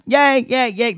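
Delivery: mock childlike cheer, pitched high; excited cheering. Retelling a childhood cinema reaction to a friend, excited cheering. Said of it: "I was just like".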